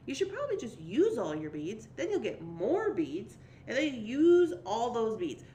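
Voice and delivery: a mildly pushy inner voice, a bit slow; inner voice one. Acted. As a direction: nag yourself to use all the beads. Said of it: "One of the things says".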